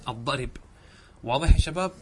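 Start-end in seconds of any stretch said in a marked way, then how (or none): 0.1-0.5 "الضرب" repeated softer as ad-darib; pause by transfer. Shown as a demonstration. Teacher repeats genitive pause form softly, "الضرب" said ad-darib. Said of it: "انقل حركة الباء إلى الراء".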